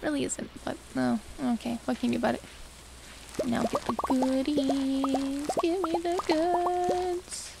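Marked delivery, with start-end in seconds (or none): 3.5-7.5 slow, drawn-out greedy voice; slow mock-greedy croon; goodie grabber. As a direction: savour each word like a hungry goblin.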